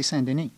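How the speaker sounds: "Saint Denis" as san-de-NEE, silent S; French-derived "Saint Denis" without a French accent; Anglophone Montreal pronunciation. Shown as a demonstration. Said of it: "say it without any French accent".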